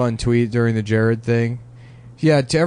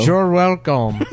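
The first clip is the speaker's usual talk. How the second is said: silly put-on voice; 3 semitones higher, slower than usual. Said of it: "a guy that talk like this".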